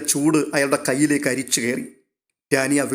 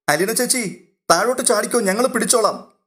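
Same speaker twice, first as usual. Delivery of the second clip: put-on higher, a boy calling up to the terrace; child calling out; 7 semitones higher than usual. Milan calls up to Alina on the terrace, a high excited child's shout. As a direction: call up gleefully like an excited kid. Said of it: "വിളിച്ചു പറയുകയാണ്".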